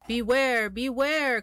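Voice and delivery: loud, high warning call. Acted. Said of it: "called the bees to the bear".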